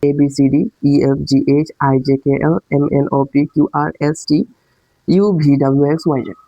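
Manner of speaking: reciting the letters the way Bangladeshi schools teach them; plain Bangla letter names, one after another; school-style alphabet recital. Shown as a demonstration. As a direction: chant through the alphabet like a classroom drill. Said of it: "আমরা এই স্কুলে কিভাবে ইংরেজি পড়তাম".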